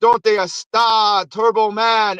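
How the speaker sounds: slow, lightly voiced Spanish-speaking doll; talking toy. Knock-off doll speaking from the opened box, slow toy voice. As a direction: imitate a bilingual action figure, slowly. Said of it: "it starts talking in Spanish".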